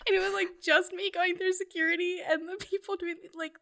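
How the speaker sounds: high, shaky laughing through tears; recalling the airport breakdown with laughing sobs; laugh-crying. Real, not acted. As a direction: laugh while the tears come.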